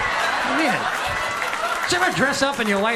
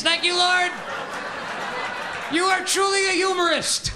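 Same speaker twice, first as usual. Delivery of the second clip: high, sing-song froggy preaching; Kermit the Frog priest; 5 semitones higher than usual. Retold or imitated. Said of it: "priest delivery".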